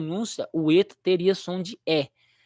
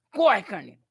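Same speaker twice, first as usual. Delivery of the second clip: mock alarm; 3 semitones higher than usual. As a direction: warn the little sheep in a silly panic. Repeats mock warning.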